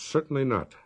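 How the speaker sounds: lightly voiced stern sister, building to a sharp demand; cold voice. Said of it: "The cold voice announced".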